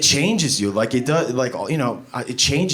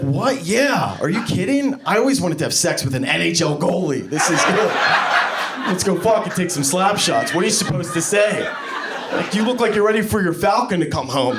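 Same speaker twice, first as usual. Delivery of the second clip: high, overeager fake praise; squeaky, overdone reassurance; forced enthusiasm; 7 semitones higher than usual. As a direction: sell the compliment way too hard. Forced compliments to wife.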